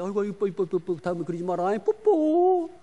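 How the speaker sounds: put-on loud cooing over a cute child, rising to a squeal; doting parent. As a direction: melt from scolding into gushing affection. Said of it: "어리광치니까 야단치다 말고".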